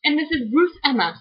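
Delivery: playfully exaggerated British presenter; corny British accent. Sister introduces the book reviews, corny British accent. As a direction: ham up a British accent to amuse. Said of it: "read them in corny British accents".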